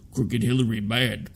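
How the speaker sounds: first take, Hillary leaned on; low redneck Trump, stressing Hillary; Trump impression. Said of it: "I can't do a New York accent".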